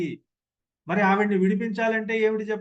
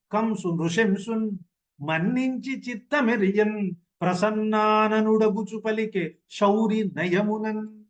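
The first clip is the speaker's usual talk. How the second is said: poem recitation. Acted. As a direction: intone each line like a classical padyam. Recites the full padyam.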